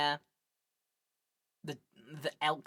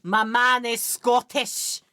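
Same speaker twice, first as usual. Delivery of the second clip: slow, loud, gleeful announcement; delighted exclamation; 2 semitones higher, 8 dB louder, much slower than usual. Real, not acted. Gamer thrilled the character is Scottish, loud and slow. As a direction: savour it, thrilled by the discovery.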